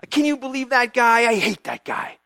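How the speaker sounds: a touch of grudging contempt; mildly acted anger; angry mutter. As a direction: Haman spitting out his hatred. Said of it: "angry, mad".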